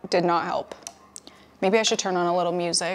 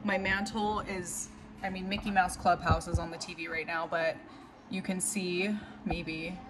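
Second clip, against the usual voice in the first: softer, subdued showing-off; quiet voiceover; 11 dB quieter than usual. Real, not acted. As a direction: point it out quietly, still downcast.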